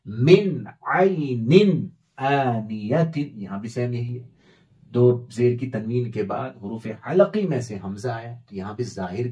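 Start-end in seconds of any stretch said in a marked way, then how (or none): 0.1-3.3 मिन आइनिन said with a clear, unnasalized नून. Shown as a demonstration. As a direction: pronounce the नून openly, no ghunna. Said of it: "नून साकिन को जाहिर करके पढ़ेंगे". (नून साफ़ इज़हार)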